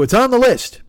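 exaggerated high-pitched put-off line; stock brush-off. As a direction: pitch it way up, playing your own stock excuse. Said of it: "I always go".

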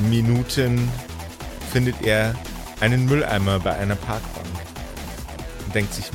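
deliberate storyteller delivery; game master narration. A narrator's reading. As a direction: narrate the dash with measured emphasis.

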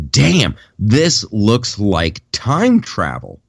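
slow, drawn-out awed reaction; retold amazement. Moviegoer reacting to the screen, slow retold amazement. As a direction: stretch each word in wonder, retelling it.

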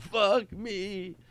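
high-pitched mock laugh on words; a softened squeal of fake laughter; worst laugh imaginable. Comedian imagines someone's awful laugh, high and mock-wailing. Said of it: "If you know that that's not".

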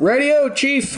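loud, high brash American; mocking a brash American. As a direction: play the loudest tourist. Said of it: "the most American you possibly could".

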